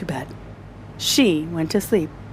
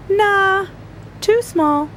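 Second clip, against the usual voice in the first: doctor; 11 semitones higher, slower than usual. Acted. Doctor rejects needle.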